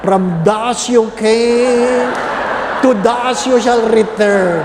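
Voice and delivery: slow, drawn-out liturgical chant; solemn ritual intoning. Retold or imitated. Priest intoning the ash blessing to a parishioner, slow and solemn. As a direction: intone it like the Ash Wednesday rite.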